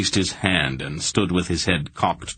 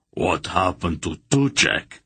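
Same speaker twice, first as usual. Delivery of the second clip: gasping. A narrator's reading. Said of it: "still gasping for breath".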